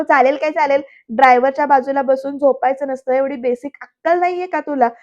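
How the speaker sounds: mildly irritated echo, then scolding; mock-annoyed telling-off; retold irritation. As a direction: throw the words back as an annoyed question. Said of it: "पृथ्वी चिडून म्हणतो".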